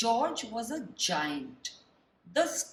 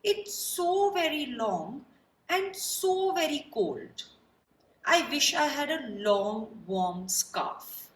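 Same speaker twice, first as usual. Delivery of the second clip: high, louder giraffe wishing for a scarf; 5 semitones higher, 4 dB louder than usual. Acted. Giraffe complaining to George about its cold neck, high and plaintive. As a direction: lift the pitch for a sad giraffe.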